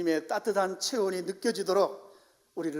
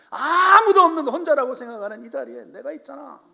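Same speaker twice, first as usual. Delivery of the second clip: God pleading; 8 semitones higher, 12 dB louder than usual. Acted. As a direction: plead hard as God to a doubting friend. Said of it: "바로 어루만지시는 거죠".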